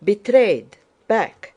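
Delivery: high, loud cries of warning; alarmed shout. A narrator's reading. Dólokhov warning his friend of betrayal, alarmed shout. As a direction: shout the alarm in short bursts. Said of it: "shouted Dólokhov".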